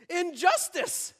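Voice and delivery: high, drawn-out cry of outrage; indignant little girl. Acted. Second girl losing the desired toy, outraged. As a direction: squeal it slowly like a wronged child. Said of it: "what does she think".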